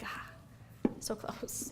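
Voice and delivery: deflated, breathy near-whisper let-down; mock disappointment, trailing off quiet; disappointed sigh. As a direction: sigh it out like the moment just slipped away. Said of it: "And you're like".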